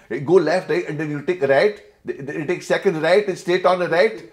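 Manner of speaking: put-on bossy neighbour in a Glasgow Asian accent, high and loud. Neighbour Mrs Panesar directing a driver, in a loud, high Glasgow Asian accent. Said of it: "they're pure like this".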